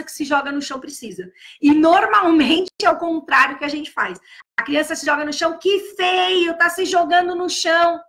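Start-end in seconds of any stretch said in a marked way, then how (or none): 5.6-8.0 put-on sharp, raised scolding of a child; scolding shout. Adult scolding a crying child on the floor, raised scolding voice. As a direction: scold the child for throwing themselves down.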